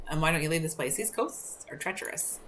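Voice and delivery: put-on lighthouse keeper with a Scottish accent; Scottish-accented warning. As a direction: read it with a light Scottish lilt. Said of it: "better with a Scottish accent".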